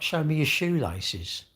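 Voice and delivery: slow, drawn-out silly demand; mock request. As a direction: parody the creepy asker. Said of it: "imagine saying, like".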